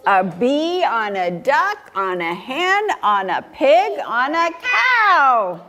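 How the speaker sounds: slow, measured cumulative recital; story reading to children. A narrator's reading. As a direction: stack each phrase, stretching the last one. Recites the pile of animals.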